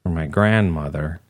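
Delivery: lightly voiced gloomy office dweeb; deadpan sad sack, slow in places; sad Ferb voice. Ferb McDuff tells his grandmother story, lightly voiced and glum. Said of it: "that's not a very good voice".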